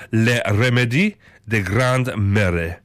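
put-on slow, amateur French accent; French phrase in a halting accent; attempted French accent. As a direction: read it slowly in a rough French accent. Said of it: "get better at these accents".

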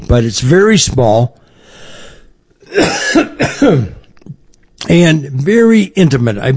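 chip stuck in throat; throat irritated. Real, not acted. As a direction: talk through a scratchy throat. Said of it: "potato chips and they're stuck".

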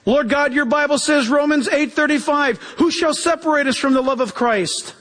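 crying out to God. Shown as a demonstration. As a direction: cry out Scripture to the Lord. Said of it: "crying out like this".

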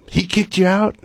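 high, astonished question; can't believe what he just heard; retold disbelief. Friend on the phone, learning he was sent home, sounds astonished.

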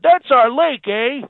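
put-on Canadian accent. President mimicking Canadian PM, mock Canadian accent. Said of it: "He said".

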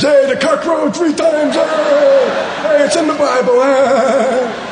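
put-on high-pitched childish taunting shout; giggly sixth-grader. Sixth-grader excusing a dirty word as Bible talk, high gleeful shout. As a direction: crow it out like a naughty schoolkid, very high. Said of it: "the ones you giggled at in sixth grade".

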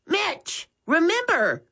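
put-on a young boy reminding his brother; Max's voice. A narrator's reading. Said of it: "Max suddenly noticed".

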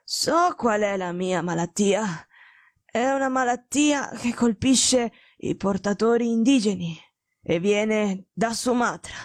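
a dying detective warning Watson away; feverish invalid. Acted. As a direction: speak like a man burning with fever. Holmes's sickbed voice.

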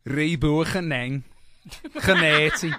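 mock Liverpudlian accent, slowly drawn out; half-laughing, hammed-up Liverpudlian accent. Shown as a demonstration.

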